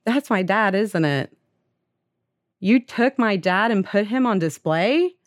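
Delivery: high, disbelieving questions, acted out; distressed confrontation. Retold boy confronts adopted father.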